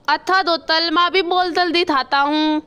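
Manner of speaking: lisped, "अथा दो तल" for "अच्छा तो सर"; lisping crow. Acted. Kalu crow to the doctor, lisping after the surgery. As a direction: say "थाता" with a childlike lisp. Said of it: "आप तो तोतले हो गए हैं।".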